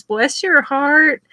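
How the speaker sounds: drawn out like a sugary Southern lady; Southern woman. Retold or imitated. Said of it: "if a Southern woman says".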